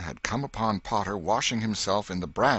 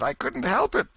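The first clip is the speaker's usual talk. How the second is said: help cried very high and louder; anguished higher moan; 5 dB louder than usual. Acted. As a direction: let the moan break upward. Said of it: "Potter moaned".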